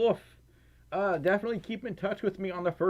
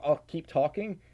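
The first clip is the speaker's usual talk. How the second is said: usual speaking voice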